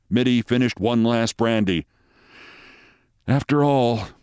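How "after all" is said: usual speaking voice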